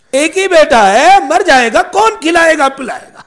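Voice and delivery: retold lament, pushed out forcefully; preacher's emphatic imitation of worried parents; emphatic parental lament. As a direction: voice the parents' worry with insistent force.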